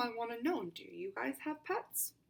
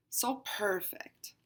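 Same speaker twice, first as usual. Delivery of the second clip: contented sigh; slower than usual. Acted.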